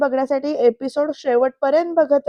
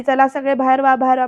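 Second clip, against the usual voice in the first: loud commanding order; police order; 5 dB louder, faster than usual. Retold or imitated. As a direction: clear the room, barking it out. Police inspector pushing people out. (पोलिसी आदेश, मोठ्याने)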